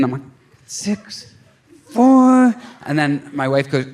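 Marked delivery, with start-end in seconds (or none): 0.7-1.3 mouthed count. Retold or imitated. Mouthing numbers to himself. 1.9-2.5 mock count burst.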